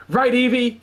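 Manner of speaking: high-pitched rallying call; mild narrated yell. A narrator's reading. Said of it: "he yells towards the heaven".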